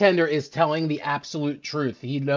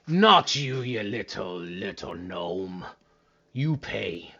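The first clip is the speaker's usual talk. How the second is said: dismissive; 5 semitones lower, slower than usual. Acted. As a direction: brush off the little gnome. Bartender rebukes the gnome.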